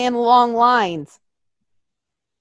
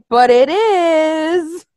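flat insistence; 6 semitones higher, 4 dB louder, much slower than usual. Retold or imitated. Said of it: "And everybody's like".

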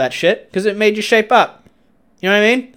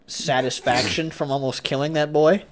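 slow hushed whisper; 2 semitones lower, 7 dB quieter than usual. Real, not acted. Admitting a guilty thrill to his friend, slow whisper. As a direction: let it slip out under your breath. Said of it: "whispered confession".

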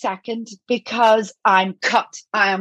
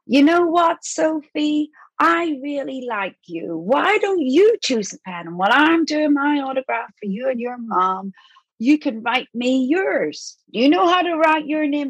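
higher, sing-song and gentle; kindly to a child; 5 semitones higher than usual. Retold or imitated. Mark Hamill encouraging Sophie, higher gentle voice. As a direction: talk sweetly to a small girl.

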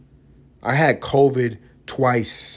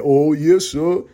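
hammed-up eager servant; bow and scrape it out; caricature slave voice; 4 semitones higher, 5 dB louder, much slower than usual. Mocking a fifties film caricature, eager hammed-up servant. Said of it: "They had him as".

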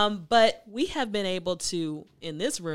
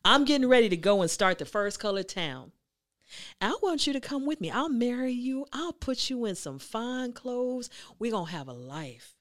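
smooth suitor. Retold or imitated. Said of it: "she was like".

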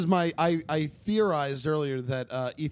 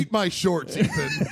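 playful shouted catchphrase; shouting; 5 semitones higher, 4 dB louder, slower than usual. Acted. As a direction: yell it like a cartoon brat. Bart Simpson catchphrase shouted.

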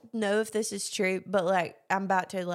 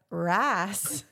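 mimicked Southern accent. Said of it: "And she was like".

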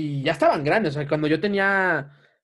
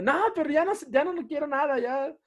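sulky retold refusal; 9 semitones higher than usual. Retold upset child refusing sister.

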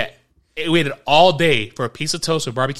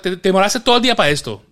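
fast Spanish; 4 semitones higher, 4 dB louder, faster than usual. Retold or imitated. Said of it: "and in Spanish".

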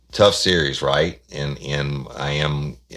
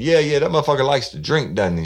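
a raised, louder voice for the man calling; brash caller; 13 semitones higher, 6 dB louder, faster than usual. Retold or imitated. Prank caller demanding to know where Johnson is, loud. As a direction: push it out like a pushy caller.

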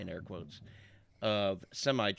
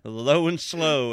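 low and slow; 3 semitones higher, 7 dB louder, slower than usual. Shown as a demonstration. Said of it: "as you say".

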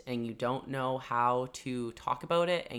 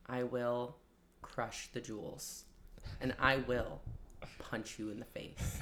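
barbarian; 8 dB quieter than usual. Pretend. Mock barbarian threat.

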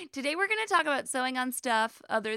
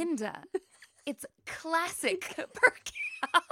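put-on "classic percal" drawn out slowly in a northern accent; Jane's northern accent; 6 semitones higher, much slower than usual. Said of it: "Jane has this northern".

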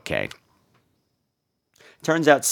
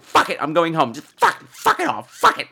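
cranky exasperation; 3 semitones higher than usual. Retold or imitated. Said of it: "So I'm like".

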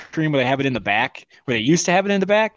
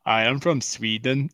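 mock Swedish accent; 4 semitones lower, 3 dB quieter than usual. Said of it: "they're like".

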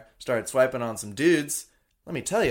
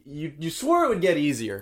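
ordinary talk

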